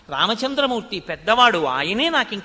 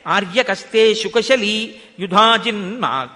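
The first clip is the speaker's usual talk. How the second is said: slow, louder chanted Sanskrit verse; shloka recitation; 5 dB louder, slower than usual. Acted. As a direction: intone the shloka like a pravachanam. (శ్లోక పఠనం, నెమ్మదిగా గట్టిగా)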